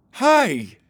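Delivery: high, loud call; guard calling. Acted. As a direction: shout to stop them. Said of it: "called the porcupine guard".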